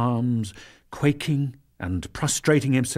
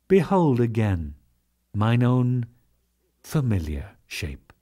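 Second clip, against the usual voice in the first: gentle Krishna. Acted. The Lord consoling Arjuna.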